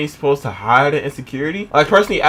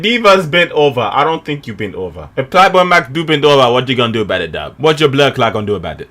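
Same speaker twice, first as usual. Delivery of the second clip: mock Caribbean accent, falling away at line ends; imitated Caribbean accent; 2 semitones lower than usual. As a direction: lightly mimic a Caribbean accent. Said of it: "I shouldn't be imitating his accent".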